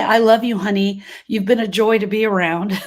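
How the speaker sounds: mock sweet husband. Wife mocking the tender words her husband never said, hammed-up and loud. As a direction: gush it out like a sappy husband, half joking.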